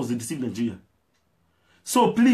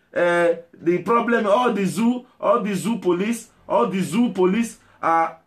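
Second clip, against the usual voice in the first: hammed-up live reporter voice, a bit higher; mocking agitator reporter; 4 semitones higher than usual. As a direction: mimic a shouty self-styled reporter. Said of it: "You can never see one person that will talk in a normal way".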